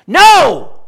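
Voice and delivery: loud, high, emphatic shout of no; emphatic Paul. Retold or imitated. Preacher voicing Paul's answer to sinning on, loud emphatic no. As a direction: bang out Paul's no like a verdict. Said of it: "I'm not as emphatic as he is".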